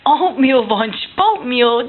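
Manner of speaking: playful rhyme. Pretend. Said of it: "That's some good rhyming".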